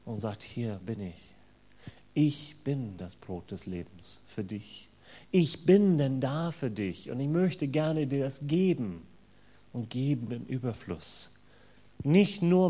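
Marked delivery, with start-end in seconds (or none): 0.4-11.3 tender invitation. Acted. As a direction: gently offer yourself to the listener. Jesus invites each listener personally. (sanft und persönlich einladend)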